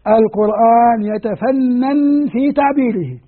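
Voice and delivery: slow, weighty delivery of his saying; slow emphatic maxim. Shown as a demonstration. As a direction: spell out يتفنن slowly as a key lesson point. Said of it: "يعني تعرف شو أنا أقول دائمًا". (ببطء وتأكيد كأنها قاعدة)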